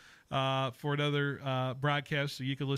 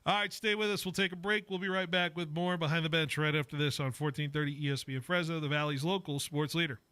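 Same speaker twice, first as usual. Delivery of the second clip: radio throw to break; 3 semitones higher than usual. Real, not acted. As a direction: send listeners into the commercial break.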